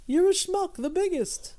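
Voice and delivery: tossing off a Borscht Belt insult, hammed up; mock Jackie Mason jab. Cohost ribbing his friend with a mock Jackie Mason insult.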